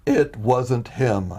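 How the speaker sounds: unhurried, knowing reassurance; voice of the Lord. Retold or imitated. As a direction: say it very slowly, gently amused. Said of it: "humor in this tone".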